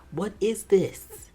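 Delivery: slow, breathy whisper of disbelief; stunned whisper. Real, not acted. Reacting to the show in stunned disbelief, slow whisper.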